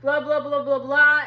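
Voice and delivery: a loud mock-startled what; mock shock. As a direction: act the disbelief. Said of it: "they're like".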